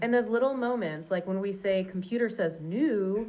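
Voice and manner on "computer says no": "new" drawn out long with a lift; drawn-out catchphrase intonation. Shown as a demonstration. Showing the intonation to a listener, drawn-out "new". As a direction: stretch out "new", tipping it upward. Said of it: "You wanna hear the intonation".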